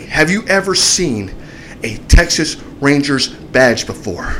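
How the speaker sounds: drawn-out imitation of an officer; slow challenge. Officer challenging the driver about his badge, slow and deliberate. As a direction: stretch each word as a pointed question.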